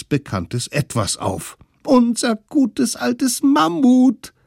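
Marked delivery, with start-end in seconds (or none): 1.9-4.3 very high, loud, slow joyful cry; high gleeful shout; excited kids' cry. Acted. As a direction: shout it out like thrilled little kids. Kids spot the mammoth.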